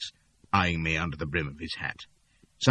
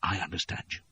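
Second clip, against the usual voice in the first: softer sullen reply; muttering; 8 dB quieter than usual. Acted. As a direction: mumble it in defeat. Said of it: "I muttered".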